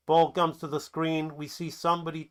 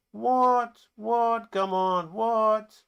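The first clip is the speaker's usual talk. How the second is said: high-pitched protest; indignant disbelief; 7 semitones higher, much slower than usual. Acted. Players refused a free kick, indignant protest. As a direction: protest the call, high and incredulous.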